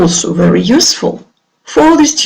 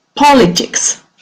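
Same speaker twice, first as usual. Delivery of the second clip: politics said with heavy stress on first syllable POL; 4 semitones higher than usual. Repeating a word in a pronunciation drill for learners: stress on first syllable of politics. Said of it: "the stress is on the first syllable".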